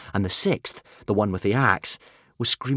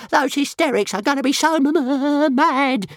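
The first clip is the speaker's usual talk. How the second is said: high, loud stuttering dragon moan; high-pitched fretful creature whine; 5 dB louder than usual. A narrator's reading. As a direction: wail it with a stammer. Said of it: "moaned Toothless".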